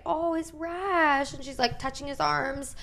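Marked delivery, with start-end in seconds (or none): 0.0-1.3 slow, higher sympathetic coo; imitated sympathy, stretched and lifted in pitch; compassionate doctor. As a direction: draw it out with gentle concern, imitating a caring doctor. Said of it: "a little bit compassionate".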